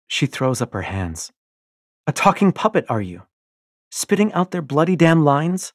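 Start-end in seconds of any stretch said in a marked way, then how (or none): 2.1-5.7 loud, high jeering; wife scorns her husband, loud and mocking; scornful mockery. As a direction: sneer at him. Io mocks his obedience.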